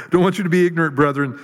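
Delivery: a joking jab: "Don't want you to be ignorant"; joking inflection. Shown as a demonstration. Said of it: "These are the jokes, people".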